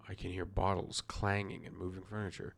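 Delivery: lightly voiced detective reading; Poirot. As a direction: read it as a mildly put-on detective. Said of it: "I'm doing the best accent for Poirot".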